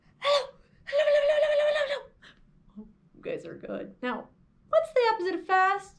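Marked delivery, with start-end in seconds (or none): 0.2-2.9 very high, racing, rapid-fire string of words. Leading a group in a library hello game, saying hello very fast. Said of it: "Let's say hello as fast as we can".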